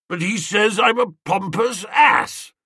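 a wounded bully blurting it out; indignant outburst. A narrator's reading. Spode protests to Wooster about the insult: indignant outburst.

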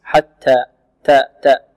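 تاء with an audible puff of breath. Shown as a demonstration. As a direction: release each T in حتى and تاء with a light whispery puff. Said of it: "التاء فيها همس".

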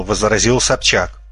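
ordinary delivery

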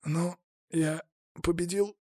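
faint, spent question; barely squeezed out. A narrator's reading. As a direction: force the words out on your last breath. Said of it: "едва смог выдавить из себя".

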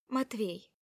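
ordinary delivery

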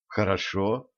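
plain reading voice

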